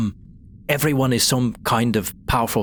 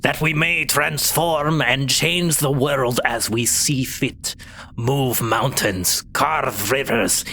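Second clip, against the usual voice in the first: slow ritual prayer; slower than usual. Acted. Kobold chief prayer, slow.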